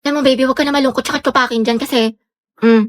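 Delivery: fast, smooth sponsor read; ad pitch. Acted. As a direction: sell it quickly like a promo.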